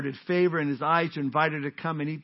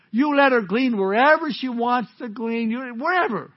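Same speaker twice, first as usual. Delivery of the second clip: insistent command; 6 semitones higher, 6 dB louder than usual. Acted. Preacher voicing Boaz commanding men.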